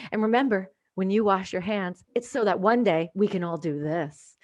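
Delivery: lightly imitated, slowing ad delivery; smiling commercial voice. Health commercial woman reassuring viewers, mock smiling ad voice. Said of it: "she smiles, and she goes".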